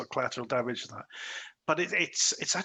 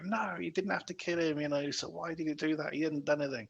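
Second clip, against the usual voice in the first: higher-pitched but understated mock screaming; 4 semitones higher, 3 dB quieter than usual. Film fan retelling the captain's protest, mock scream. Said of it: "like, screaming".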